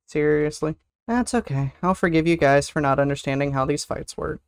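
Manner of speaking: ordinary delivery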